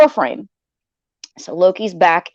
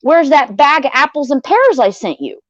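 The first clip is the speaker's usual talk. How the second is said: mildly raised, higher-pitched retold call; Loki; 6 semitones higher than usual. Loki asks after his gift from the kitchen, lightly acted calling out. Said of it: "I can hear Loki in the kitchen going".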